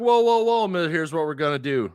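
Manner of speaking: high, loud whoas cutting him off; retold alarmed interruption; protesting whoa. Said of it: "I'm like".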